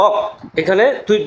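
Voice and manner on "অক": অক said alone, closed on the k; isolated syllable. Shown as a demonstration. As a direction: cut অক off as the first piece. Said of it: "দুইবার ভাঙলা". (অক আলাদা করে উচ্চারণ)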